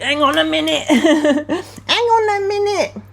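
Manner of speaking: high-pitched laughing stall; giggling. Real, not acted. Reader hunting for lyrics, giggling.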